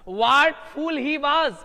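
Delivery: drawn-out slow reading; slow dictation read. Shown as a demonstration. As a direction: read it out slowly to the class. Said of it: "ये क्या मूर्ख है वो". (धीरे-धीरे वाक्य पढ़ना)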